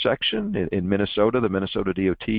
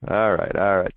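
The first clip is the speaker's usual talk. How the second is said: catchphrase voice. Pretend. Pun punchline, catchphrase voice.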